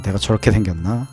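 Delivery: ordinary talk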